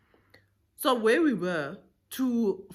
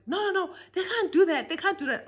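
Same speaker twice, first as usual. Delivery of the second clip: high, laughing mock outrage; imitating the passengers, half laughing, far higher; laughing protest; 11 semitones higher, 3 dB louder than usual.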